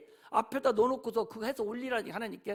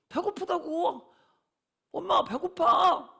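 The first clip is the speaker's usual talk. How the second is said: drawn-out plea to mom, getting louder; lightly voiced hungry child; 3 semitones higher, 4 dB louder, slower than usual. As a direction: imitate a child's slow, raised complaint. Acts child telling mother it's hungry. (엄마한테 배고프다고 조르듯)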